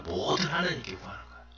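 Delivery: "뭐든 하나님께 구하는 거예요" repeated softly and quickly, half to oneself; soft echo. Shown as a demonstration. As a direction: hush the repeat and let it run quick. Soft echo of previous line. ("하나님께"를 작고 빠르게 혼잣말처럼 되풀이)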